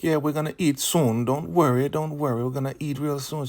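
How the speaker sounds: high-pitched mock-reassuring mother voice; soothing elder woman. Elder mother promising food to hungry newcomer, high and soothing.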